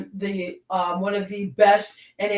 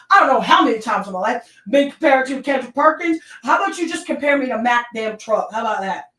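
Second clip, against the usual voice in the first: loud indignant rant; 3 semitones higher, 5 dB louder than usual. Real, not acted. Ranting about comparisons.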